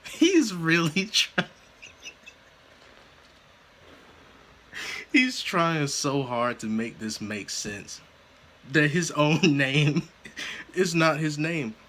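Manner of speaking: talking through giggles; words broken by laughter; laughing fit. Real, not acted. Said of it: "I'm sorry I'm laughing so hard".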